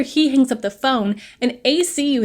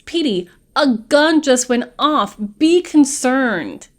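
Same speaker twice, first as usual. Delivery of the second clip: louder, slow, dragged-out scolding; mock exasperated scolding; 3 semitones higher, 5 dB louder, slower than usual. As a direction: hammer the point home to Petey, slowly. Hal scolding Petey after gunshot.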